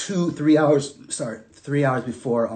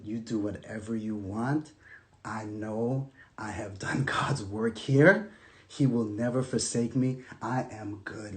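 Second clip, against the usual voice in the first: resigned surrender; 5 semitones lower, 9 dB quieter than usual. Retold or imitated. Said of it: "I just threw my hands up".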